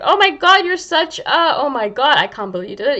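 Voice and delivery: high, loud exasperated berating of yourself; high, loud "oh my God" at yourself; harsh self-scolding. Retold or imitated. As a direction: scold yourself like you can't stand what you did. Mean self-talk after a mistake.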